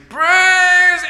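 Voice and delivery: high, loud burst, cut short; sudden praise shout. Acted. Old lady starts her praise before the neighbour interrupts, high shout. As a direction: belt it out and get cut off. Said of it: "about to let out this praise".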